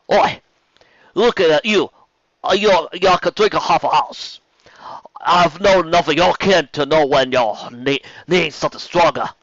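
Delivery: high, loud Cockney barmaid teasing; brassy Cockney barmaid sizing up a big customer; female Cockney accent. Acted. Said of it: "a female Cockney accent".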